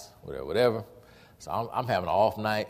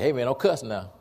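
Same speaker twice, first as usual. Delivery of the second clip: retold correction; 3 semitones higher, 4 dB louder than usual. Pastor's retold mild correction.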